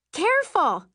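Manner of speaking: high, loud, tense cry; scream through clenched teeth. A narrator's reading. Frightened broom passenger to sister, tense scream. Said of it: "I scream through clenched teeth".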